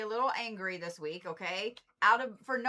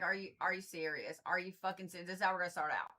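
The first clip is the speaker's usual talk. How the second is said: lower, softer retelling of her outburst; retold disbelief; 4 semitones lower, 5 dB quieter, faster than usual. Reader retelling her reaction to the Abaddon card, lower mock disbelief. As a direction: quietly re-enact the earlier complaint, lower. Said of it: "and I was like".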